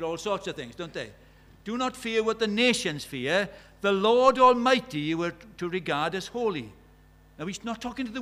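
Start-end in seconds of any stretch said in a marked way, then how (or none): 1.6-6.7 proclaimed scripture. Acted. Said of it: "quoting Isaiah eight".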